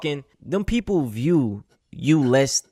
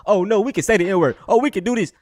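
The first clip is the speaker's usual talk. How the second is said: mocking commenters; 5 semitones higher than usual. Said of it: "They mad in the comments".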